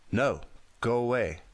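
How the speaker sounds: high frantic yell. A narrator's reading. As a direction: shriek at the intruder to go away. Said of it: "he heard Mandy yell".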